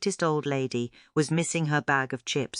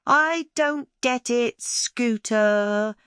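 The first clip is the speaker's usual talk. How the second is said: put-on high, slow puzzled child's voice; a seven-year-old stumped and thinking aloud; puzzled little girl; 7 semitones higher, 4 dB louder, much slower than usual. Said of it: "Tia said".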